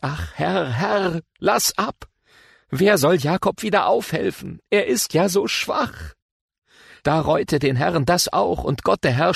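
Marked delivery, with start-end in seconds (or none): 0.0-6.1 higher, very slow, begging plea; pleading prayer. Acted. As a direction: draw out the plea to the Lord. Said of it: "Da sprach ich". (flehend, höher und sehr langsam)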